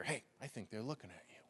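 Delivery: soft, secretive whisper of discouragement; whispering demon. Acted. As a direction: tempt them quietly, like a voice on your shoulder. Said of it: "You could whisper in their ear".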